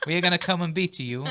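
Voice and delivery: hammy Italian taunt; Italian accent. Pretend. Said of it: "I won't do the accent".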